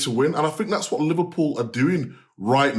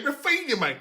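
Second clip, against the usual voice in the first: mock London accent, pitched up; a quick stab at a London accent; 10 semitones higher, 4 dB quieter than usual. Shown as a demonstration. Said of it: "in a London accent".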